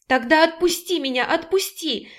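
woman begging him to release her, tearful; tearful pleading. A narrator's reading. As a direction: plead breathlessly to be let go. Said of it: "со слезами на глазах прошептала она, умоляя".

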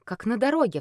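ordinary delivery

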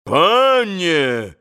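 loud menacing cry; threatening shout. A narrator's reading. Both pans shouting threateningly at Mitya. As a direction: bristle like roosters. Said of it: "прокричали оба пана с угрозою".

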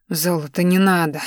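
ordinary delivery

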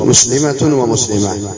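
slow مسلمة ومسلمة, "muslimatun wa muslimah"; t ending, then h. Shown as a demonstration. Teacher giving an example, مسلمة ومسلمة with t then h. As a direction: sound the t in مسلمة, breathe out h in ومسلمة. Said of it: "يمكن أن تنطق ها".

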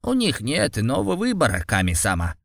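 put-on weary old priest voice; tired. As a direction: say it wearily, like an exhausted old man. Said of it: "устало произнёс".

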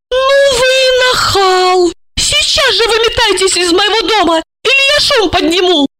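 high-pitched outraged cry. Acted. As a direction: yell at the cheeky intruder. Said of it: "возмутилась".

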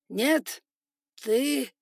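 sharp loud rebuke, pitch up; angry rebuke. Acted. Spider lord father rebuking his son, loud and angry. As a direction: cut him off in fury.

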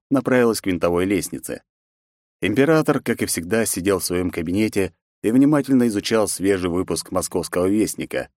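plain reading voice

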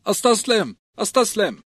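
high panicked yell of surrender. A narrator's reading. A beaten squire yelling to his attackers, high and frantic. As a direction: cry out giving up, voice jumping up. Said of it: "فتراجع صائحا".

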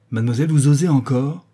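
the marquise scolds her kneeling maid; indignant. Acted. Indignant outburst.

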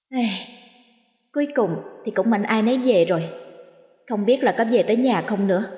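soft, grumbling ghost voice; a ghost complaining half under its breath. Acted. Ghost muttering on its grave.

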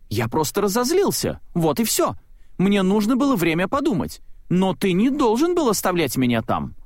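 высокий, чуть взволнованный голос Майка; оправдывайся, голос выше обычного. A narrator's reading. Майк оправдывается перед другом. (Майк оправдывается перед Салли, высоким голосом)

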